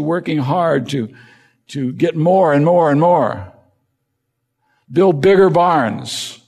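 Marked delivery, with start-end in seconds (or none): 1.9-6.4 mock urging. Preacher voices worldly ambition.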